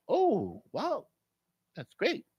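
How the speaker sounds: high, soft put-on "impressed" voice; polite mock amazement. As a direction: react with gentle, feigned wonder. Retold polite reply to woman.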